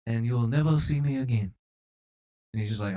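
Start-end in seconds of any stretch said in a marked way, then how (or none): 0.1-1.5 hammy mock-French proposition; theatrical Frenchman; fake French accent. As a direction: make a dramatic offer in fake French accent. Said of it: "That was a fake accent".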